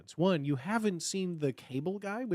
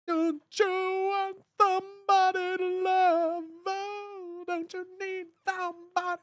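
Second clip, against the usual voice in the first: much higher, slow, lisping karaoke croon; Jim Carrey impression; 14 semitones higher than usual. Imitating Jim Carrey singing karaoke in the movie, lisping and high. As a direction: ham up a goofy lisping singer. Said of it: "him dancing around karaoke going".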